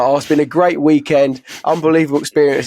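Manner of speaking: lightly hammed-up rave review; gushing interviewee. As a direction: imitate a friend gushing to the BBC. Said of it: "and he was like".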